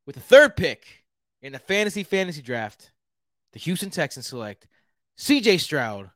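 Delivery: hammed-up Houston good-ol'-boy accent; lightly put-on Texas twang. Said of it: "This is my Houston accent".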